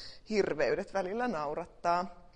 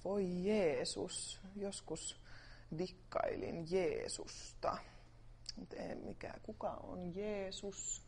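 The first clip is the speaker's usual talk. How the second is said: soft; 8 dB quieter, slower than usual. Real, not acted. Musing on Jesus.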